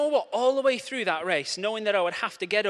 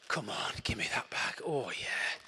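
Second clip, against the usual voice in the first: whispered, much softer, craving sweets; greedy whisper; 7 semitones lower, 9 dB quieter than usual. Pretend. Craving the Haribo bag.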